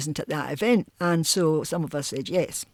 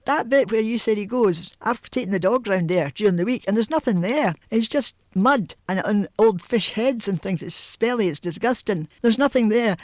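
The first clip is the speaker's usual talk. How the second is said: lightly voiced child, pitched up; mildly acted higher-pitched protest; 4 semitones higher than usual. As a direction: argue back like a baffled child. Child protesting to mother, retold.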